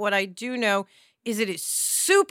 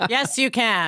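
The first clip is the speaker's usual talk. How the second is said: laughing. Real, not acted.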